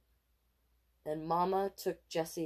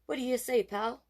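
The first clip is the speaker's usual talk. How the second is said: daddy voice; 8 semitones higher, 5 dB louder than usual. A narrator's reading. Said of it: "Daddy said to Casey".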